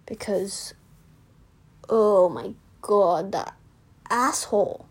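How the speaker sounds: a hushed whispered aside. Real, not acted. Venting about a bully to viewers, whispered. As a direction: whisper it as if to yourself.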